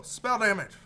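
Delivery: loud happy outburst; excited shout. Real, not acted. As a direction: blurt it out in delight. Excited at item.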